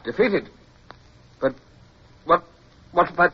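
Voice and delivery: sharp high cry of disbelief; can't believe the news, pitch leaps up; stunned disbelief. Acted.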